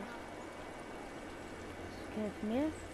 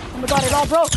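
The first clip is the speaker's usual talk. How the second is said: higher, louder burst of alarm; excited cry; 4 semitones higher, 6 dB louder than usual. Real, not acted. Player cries out louder as the build collapses. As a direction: yelp as it all falls.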